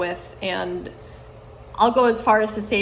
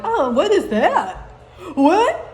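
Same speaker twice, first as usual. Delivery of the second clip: mocking impression of people; 5 semitones higher than usual. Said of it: "they're like".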